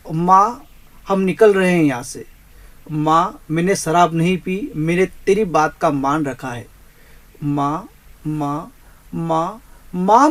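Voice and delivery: put-on drunk-party son calling his mother, pleading; a son insisting he is not drinking. (माँ को पुकारता बेटा)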